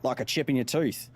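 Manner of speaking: TOOTH said with a broad Aussie vowel; put-on Aussie "tooth"; Australian accent. Shown as a demonstration. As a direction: redo it as an Australian, leaning on "tooth". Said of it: "Sorry, I mean".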